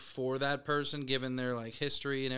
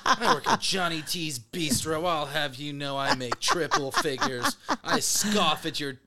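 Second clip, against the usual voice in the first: mock-posh server voice, laughing; snooty waiter. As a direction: scoff down at the customer. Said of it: "the high-end restaurant back home".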